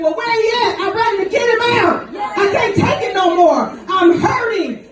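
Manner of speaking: hurting, half-shouted plea; retold screaming. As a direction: cry out like a woman in labour who's had enough.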